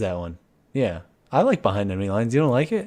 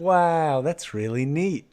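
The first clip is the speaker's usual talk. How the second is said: lightly imitated actor, slow; high drawn-out wow, then easing down slowly; a touch of awed movie-star impression; Owen Wilson; 4 semitones higher, much slower than usual. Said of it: "and he's like".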